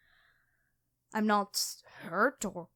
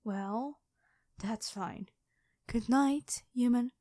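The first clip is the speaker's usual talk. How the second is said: lightly voiced dragon queen. Dragon queen toying with her captured hunter, calm and lightly menacing. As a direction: purr like a predator who has already won. Dragon reveals herself to knight.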